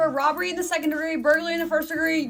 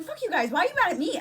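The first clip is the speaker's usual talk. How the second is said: higher-pitched, indignant retort, acted; pissed off; 6 semitones higher than usual. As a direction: mildly imitate an annoyed protest. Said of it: "I'm getting pissed off".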